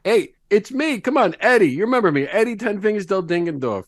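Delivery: hungry regular begging the owner to open up; eager pleading. Acted. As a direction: sell yourself to get inside. Eddie pleading to be let in.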